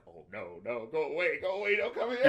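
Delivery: begging him to go away, building to a cry; panicked plea. Retold or imitated. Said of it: "and she's like".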